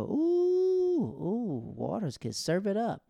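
very high, loud teasing ooh; secretary ooh-ing. Retold or imitated. Secretary hyping up the put-down, high and loud. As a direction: egg on the drama with a squeal. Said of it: "her secretary go".

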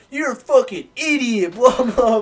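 high, loud, hammed-up telling-off; mock scolding. Walking out behind the drunk friend, mock scolding.

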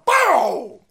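a sudden high yell of triumph; excited shout. Real, not acted. Streamer yelling at the clip, excited shout. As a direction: shout it out like a win.

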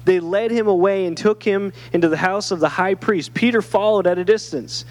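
measured Bible reading, pitched slightly up; clear, steady storytelling from scripture. Acted. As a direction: read the passage aloud to a congregation. Reads Bible passage aloud.

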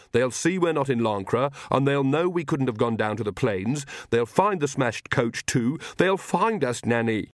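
a hint of worry, rising to the end; Magrat, worried young witch. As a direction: press the warning with growing concern.

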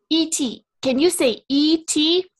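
Elliot impression. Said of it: "doing Henry Thomas so well".

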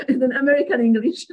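talking through a laugh, pitch lifted. Real, not acted. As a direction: let real chuckles break round the words. Amused by the accent comparison.

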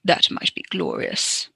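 a hint of a slow brooding Dracula; mock Dracula. Viewer quoting Dracula to Lucy, lightly dramatic. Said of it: "says Dracula".

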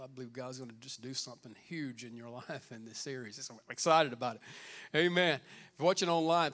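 ordinary delivery

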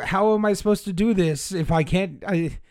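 high, loud, flustered little gnome; gnome visitor. Acted. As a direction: complain as a small gnome at a loss. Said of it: "the one that was at the door".

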